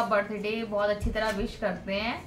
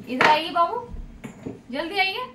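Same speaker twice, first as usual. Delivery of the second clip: higher, louder call to her son across the room; 5 semitones higher, 3 dB louder than usual. Real, not acted. Calling her son over. (बेटे को ऊँची, तेज़ आवाज़ में बुलाना)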